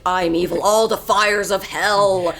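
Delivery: slow, lightly hammed Disney villain; a hint of grand evil queen; classic villain. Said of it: "that classic".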